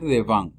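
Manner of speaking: "devant" finishing on N, T dropped; ends in N. Shown as a demonstration. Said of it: "termino en N". (devant terminado en N, sin T)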